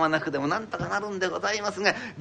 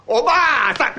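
higher, louder call with a laugh; 8 semitones higher, 9 dB louder, faster than usual. Acted. Old man calling his wife, higher and louder with a laugh. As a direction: call her loudly across the room.

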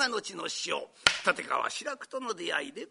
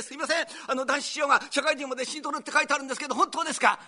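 eager caller; 7 semitones higher, 4 dB louder, much faster than usual. Retold or imitated. Eager phone inquiry.

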